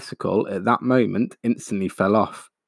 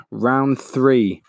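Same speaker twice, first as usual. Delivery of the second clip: a touch raised call to the engineers; mild shout; 3 semitones higher than usual. Acted. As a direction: call out the next round, understated. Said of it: "he shouted".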